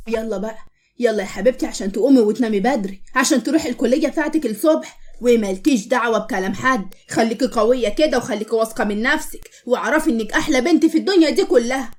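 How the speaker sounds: tender comfort. Acted. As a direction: ease her daughter off to sleep. Mother comforting crying daughter.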